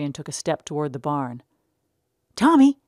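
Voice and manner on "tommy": very high, loud call; shout. Acted. Little brother calling Tom across the yard, high loud shout. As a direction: yell his name from afar. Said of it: "someone shouted".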